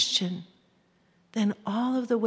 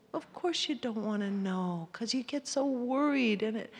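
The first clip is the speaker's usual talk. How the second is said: gentle, understanding self-talk; self-compassion; 3 dB quieter than usual. Shown as a demonstration. Speaker comforting herself about her husband, gently. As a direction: soothe yourself kindly. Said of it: "I'm saying to myself".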